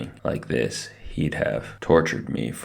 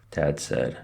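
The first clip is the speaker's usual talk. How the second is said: ordinary delivery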